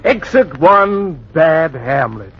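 slow, amused stage-direction tone; mocking announcement. Critic mocking the actor as he leaves, slow and amused. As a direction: announce his exit like a sneering stagehand.

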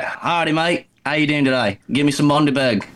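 a light, self-mocking stab at an Australian accent; playful fake Australian accent, barely shifted from his own voice. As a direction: toss off a bad Aussie greeting, half joking. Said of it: "Uh, it's, it's bad".

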